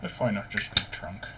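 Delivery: talking around a paintbrush held in teeth; brush clamped in mouth. Real, not acted. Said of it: "Just holding my brush in my mouth".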